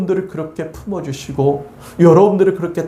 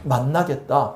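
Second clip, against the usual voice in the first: put-on God defending his child; slower than usual. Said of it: "우리 주님께서 뭐라고 말씀하십니까".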